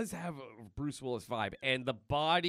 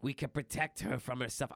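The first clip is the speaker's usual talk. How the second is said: Johnny Puma voice. Retold or imitated. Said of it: "turning into Johnny Puma there".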